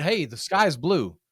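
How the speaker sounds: slow, firm statement; steady, sure "Hey, the sky's blue"; confident. Shown as a demonstration. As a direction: state it like a plain fact. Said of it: "with that confidence in my voice".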